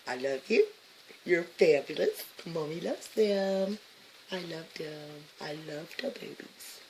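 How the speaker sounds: hushed motherly tenderness; tender. Real, not acted. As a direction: coo it gently to the babies. Tender words to good babies.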